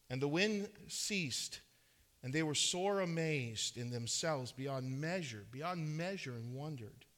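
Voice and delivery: measured Bible reading from the pulpit; formal scripture recitation with lifted key words. A narrator's reading. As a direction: read the verses out to a congregation. Reads scripture aloud.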